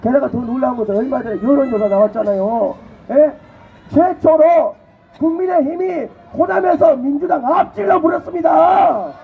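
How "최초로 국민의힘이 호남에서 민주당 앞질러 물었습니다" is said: excited rally declaration; triumphant shout. Real, not acted. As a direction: trumpet the news to the crowd. Triumphant poll announcement.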